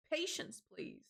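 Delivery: high, pointed "Patience, please"; haughty patience. Retold or imitated. Scolding the man shoving her with his bag, pointed and high. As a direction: lift it up and drag it out, scolding. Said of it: "I turn around and I say".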